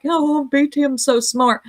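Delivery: lightly mocking fan voice; mock admirer. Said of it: "dingalings that are like".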